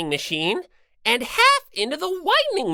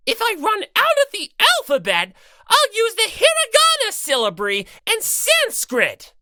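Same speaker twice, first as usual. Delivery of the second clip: fast, higher gloating; gleeful threat; 8 semitones higher than usual. Acted.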